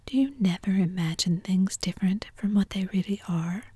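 plain reading voice

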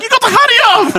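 very high, hammed-up Italian accent; impatient Italian driver caricature, laughing after; thick Italian accent. Driver hurrying the customer outside, thick Italian accent. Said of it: "I can't not do it with the accent".

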